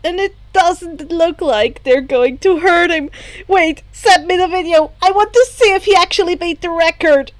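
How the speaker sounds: put-on eager, rushing girl voice, fast; lightly voiced eager girl. Hagakure asking Shoto for the video, lightly eager.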